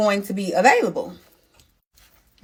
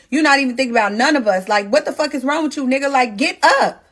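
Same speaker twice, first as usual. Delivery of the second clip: angry; 6 semitones higher, faster than usual. Retold or imitated. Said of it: "now I'm mad".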